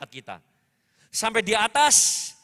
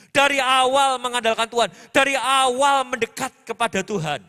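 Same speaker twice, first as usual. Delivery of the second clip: emphatic exhortation; 3 semitones higher, 6 dB louder than usual. Real, not acted. Preacher urging congregation with repetition.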